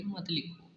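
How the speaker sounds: "मत लिखो" joined as one falling phrase; grouped after pause. Shown as a demonstration. Teacher finishing the demo, "मत लिखो" said as one unit. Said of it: "इसके बाद बोलेंगे".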